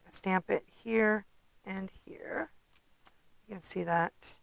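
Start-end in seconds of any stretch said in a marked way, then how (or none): 0.1-2.5 whispered to herself. Real, not acted. Murmured instruction to herself.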